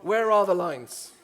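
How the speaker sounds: loud, slow, baffled question; big mock-puzzled call to the audience; exaggerated bewilderment. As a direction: peer around as if hunting for lines. Comedian mock-searching for lane lines.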